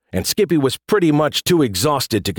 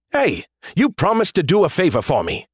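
hurt; 7 semitones higher than usual. A narrator's reading. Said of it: "He sounded genuinely hurt".

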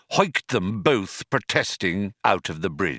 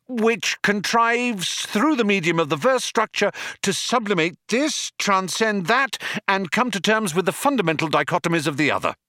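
triumphant crescendo; 10 semitones higher than usual. A narrator's reading. Arthur on the home stretch, triumphantly building. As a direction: build through the list with mounting confidence. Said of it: "He was reaching a triumphant crescendo".

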